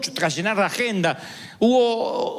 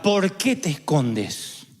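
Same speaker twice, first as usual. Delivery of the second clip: slow question; 3 semitones lower, much slower than usual. Retold or imitated. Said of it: "no pregunta".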